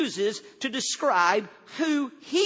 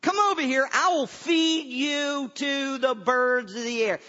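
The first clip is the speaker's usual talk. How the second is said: raised, indignant giant's threat; hammed-up outraged champion; taunting giant; 4 semitones higher than usual. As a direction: bellow a challenge, as an acted giant. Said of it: "and the giant goes".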